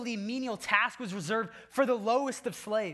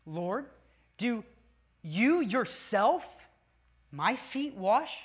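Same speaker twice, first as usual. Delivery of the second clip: each word set apart, very slow; slow literal reading; much slower than usual. Shown as a demonstration. Preacher reads Peter's astonished question to congregation, slowly. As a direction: read word by word, Greek order. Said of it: "Literally, the text reads this way".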